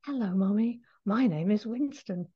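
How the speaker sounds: soft, lightly voiced young cat. Animal communicator demonstrates the cat Winston's voice, young and soft. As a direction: speak gently, like a polite little cat. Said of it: "to give you an idea of what it sounds like".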